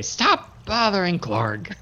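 very slow, lightly voiced annoyed brute; Clark. Clark brushes off the goblins, very slow and annoyed. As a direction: drag out each word, bored and annoyed. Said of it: "You hear Clark say".

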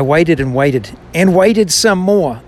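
slow, weighted stress on each "waited"; emphatic repetition. Shown as a demonstration. Reader adding own emphasis to Psalm forty, emphatic on "waited". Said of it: "that kind of emphasis".

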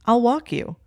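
high, loud, eager offer; eager volunteering. A narrator's reading. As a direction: jump in to volunteer, pitch shooting up. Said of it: "Anthony immediately volunteered".

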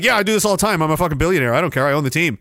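low, careless rich-guy voice; mock billionaire. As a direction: toss it off like you own everything. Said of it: "they're not like".

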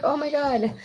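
half-hearted mock judgy voice; mock critic. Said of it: "doesn't that sound terrible? Like".

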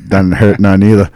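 loose Boston pub talk; Boston accent. Shown as a demonstration. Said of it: "How I sound?".

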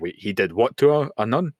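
mock-incredulous listener, pitch rising sharply at the end; baffled disbelief. Acts out a baffled rewinding listener.

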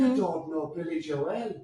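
slow mock Irish; Irish accent. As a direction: drawl it in a put-on Irish accent. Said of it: "that good at an Irish accent".

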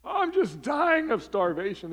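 high, loud whine with drawn-out words; hammed-up starving child, stretched and high; overdramatic starving kid. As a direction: exaggerate it like a child pleading with parents. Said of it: "They're just over dramatic and exaggerated".

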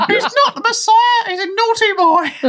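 high screechy Python mother; Python mum falsetto. Retold or imitated. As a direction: shriek it like a Python lady. Monty Python quote in falsetto.

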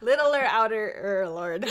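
drawn out through giggles; slow laughing. Real, not acted. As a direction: laugh it out slowly.

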